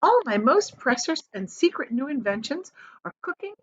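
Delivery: lightly voiced eccentric showman; a touch of secretive pride; Wonka voice. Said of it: "he said".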